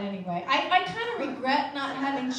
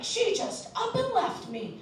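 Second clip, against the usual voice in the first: whiny; 8 semitones higher, slower than usual. Retold or imitated. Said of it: "He was like".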